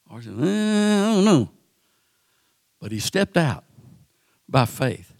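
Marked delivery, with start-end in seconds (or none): 0.4-1.5 high, unsure shrug of a voice; hesitant doubt. Retold or imitated. Peter wavers in the boat, a high, doubtful hedge. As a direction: hem and haw like you'd rather stay put.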